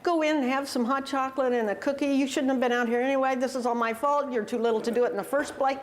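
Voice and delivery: hammed-up soothing of an upset child; imagined consoling father. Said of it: "your inclination as a father be".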